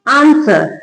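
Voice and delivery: आंसर said as "aan-sar", no W; silent W. Shown as a demonstration. Teacher showing how to read it, आंसर with silent W. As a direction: model आंसर with the W dropped. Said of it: "कैसे पढ़ेंगे".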